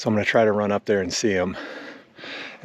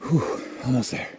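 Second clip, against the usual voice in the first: heavy breathing. Real, not acted. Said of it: "Sorry for the heavy breathing".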